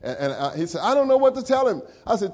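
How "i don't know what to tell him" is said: high, loud pleading quote; lightly voiced fretting father; retold anxious father. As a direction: tell it like the worried dad.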